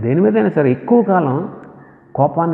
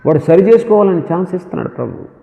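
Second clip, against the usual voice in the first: ordinary delivery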